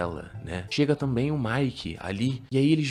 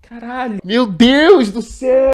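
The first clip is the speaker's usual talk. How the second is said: slow, much higher and louder "Meu Deus do céu"; outraged shout; 13 semitones higher, 13 dB louder, much slower than usual. Real, not acted. Reacting to the wife's line with a slow, loud outcry. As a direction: cry out in disbelief, stretching it out.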